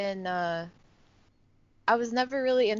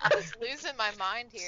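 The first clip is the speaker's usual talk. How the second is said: laughing; 3 semitones higher than usual. Real, not acted. Laughing fit after the joke.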